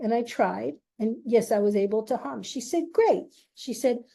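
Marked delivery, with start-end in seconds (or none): 2.9-3.3 excited praise. Retold or imitated. Peer praising her humming.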